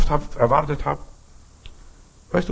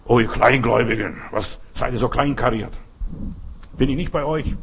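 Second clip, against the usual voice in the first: gently acted telling-off, slightly lowered; a touch of firm reproach; mild mock scolding; 2 semitones lower than usual. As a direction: chide them a little, like a disappointed master. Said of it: "der Heiland dich ein bisschen runterputzt".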